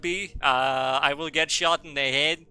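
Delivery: put-on grand ceremonial voice; orating headmaster. Ancient headmaster thanking all the students, orating. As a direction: deliver a solemn mock farewell address.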